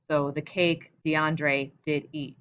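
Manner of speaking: a touch of Shakespearean lilt; mock poetic. Shown as a demonstration. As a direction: say it like a line of verse. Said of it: "it sounds more poetic or Shakespearean".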